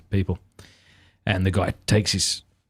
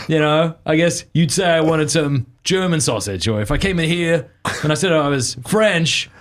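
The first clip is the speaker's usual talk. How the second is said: hammed-up offended rant, pitched higher; mock indignation; 5 semitones higher than usual. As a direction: play at being affronted, arguing your case. Acts comedian's mock-offended rant.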